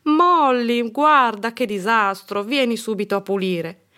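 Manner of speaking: loud, high scolding call; exasperated mum calling out; mother's shout. A narrator's reading. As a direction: shout at a child over a mess. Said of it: "gridò".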